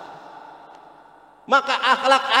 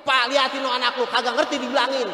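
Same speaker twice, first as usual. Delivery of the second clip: annoyed yell; 3 semitones higher than usual. Retold or imitated. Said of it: "Manggil bapaknya juga teriak lagi".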